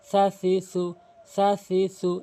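light "সা সি সু" with tongue tip against teeth; tongue-tip sound. Shown as a demonstration. Teacher showing learners the letter, "সা সি সু" with light tongue tip. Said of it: "জিহ্বার আঘাত হাতের আঘাতের সঙ্গে".

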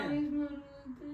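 real crying while pleading; tearful. Real, not acted. Pregnant wife begs husband for a promise, tearful. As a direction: plead through tears. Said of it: "ಅಳ್ಬಾರ್ದು".

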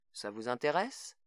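rising question on intéresse. A narrator's reading. Greg probes the frightened mother, questioning tone. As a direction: lift the end into a probing question. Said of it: "d'un ton interrogateur".

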